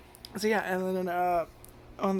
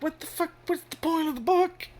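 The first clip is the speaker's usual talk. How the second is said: much higher what-the-fuck disbelief; incredulous; 10 semitones higher than usual. Retold or imitated. Reviewer scoffing at the pointless book, high mock outrage.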